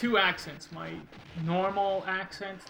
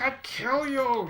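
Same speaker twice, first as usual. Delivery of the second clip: put-on higher, slow, loud German-accent growl; rough mock German accent; 8 semitones higher, 5 dB louder, slower than usual. Imitating a German friend translating "I love you", rough mock German accent. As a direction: imitate a harsh German, stretched out and forceful. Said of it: "sounds a little rough around the edges".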